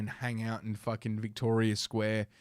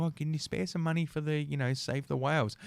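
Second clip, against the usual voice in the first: lightly voiced charity collector, higher pitch; 5 semitones higher than usual. Charity worker asking passers-by for donations, lightly imitated. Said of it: "especially the charity people".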